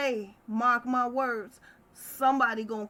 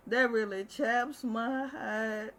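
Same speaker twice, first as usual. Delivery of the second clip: hurt; slower than usual. Real, not acted. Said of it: "it gets me".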